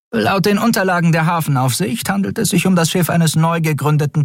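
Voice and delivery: brief the admiral urgently; lightly voiced officer. A narrator's reading. (knappe Meldung an den Admiral)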